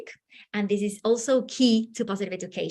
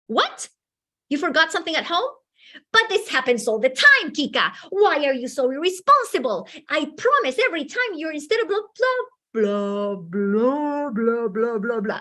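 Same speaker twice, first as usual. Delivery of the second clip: mock scolding father, raised voice; hammed-up dad telling her off; a dad lecturing his forgetful daughter; imitating angry dad; 4 semitones higher than usual. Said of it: "he started screaming".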